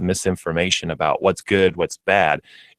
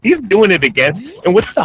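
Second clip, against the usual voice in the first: excited; 13 semitones higher, 6 dB louder than usual. Real, not acted. Reacting to Big Voice Guy's antics.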